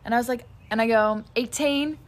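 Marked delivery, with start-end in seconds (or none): 1.3-2.0 put-on a quick British-accented "Eighteen?" pitched up a touch. Repeating the customer's words back to him, accidental British accent. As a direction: slip into a British accent without meaning to. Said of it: "In a British accent".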